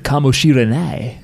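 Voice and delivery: put-on slow, American-accented Japanese. Mimicking the video's American speaking Japanese, American accent. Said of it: "his American accent was like".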